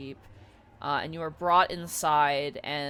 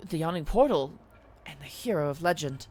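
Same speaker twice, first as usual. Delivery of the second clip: hushed. Acted. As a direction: murmur in disbelief. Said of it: "And they're like".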